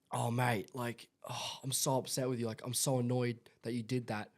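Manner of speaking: lightly acted annoyance at a mate; mock upset parent. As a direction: act out a let-down parent, pushing the volume.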